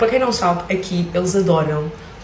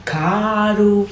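a short "Caro." in a mock carioca voice; one word, Brazilian-style; fake Brazilian accent; 3 semitones higher than usual. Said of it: "o truque é fazer o meu sotaque brasileiro".

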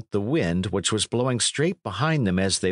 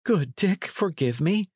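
high-pitched acted apology; imploring, without extra volume; pleading cry; 11 semitones higher than usual. A narrator's reading. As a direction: beg forgiveness in a raised pitch. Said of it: "cried the other".

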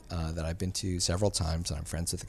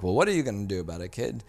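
mock taunt; faster than usual. Academy taunting the producer.

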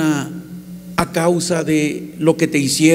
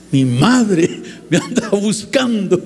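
laughing. Real, not acted. Amused disbelief at news.

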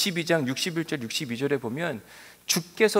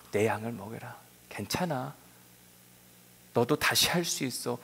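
gentle encouragement; 3 semitones lower, 4 dB quieter than usual. Acted. Jesus encouraging Peter.

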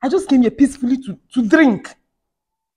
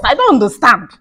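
usual speaking voice

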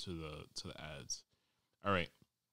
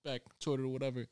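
put-on scared kid voice; 6 semitones higher than usual. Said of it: "I'm like".

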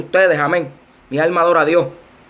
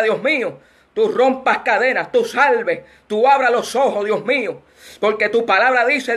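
earnest prayer in short rolling phrases; spoken prayer. Real, not acted. Preacher asks God for help to deliver this message, earnest spoken prayer. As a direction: petition God steadily, phrase after phrase.

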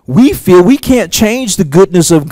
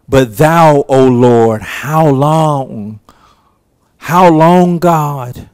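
lament; 3 semitones lower, slower than usual. Retold or imitated. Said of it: "The psalmist said".

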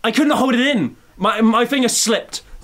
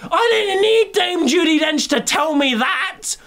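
high, shouted rant; mock fury; 9 semitones higher, slower than usual. Cursing the director in comic rage, high and shouting. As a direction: bellow at the filmmaker. Ranting outrage at the film.

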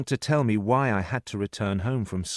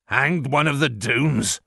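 slower, higher incredulous echo; scornful disbelief; 4 semitones higher, 4 dB louder, slower than usual. A narrator's reading. Servant echoes the boy's silly question, scornful disbelief. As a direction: throw the question back, slowly and scornfully.

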